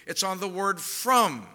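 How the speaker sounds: slow, leaning hard on from; stress on from. Shown as a demonstration. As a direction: land the weight on the word from. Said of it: "not on the word to".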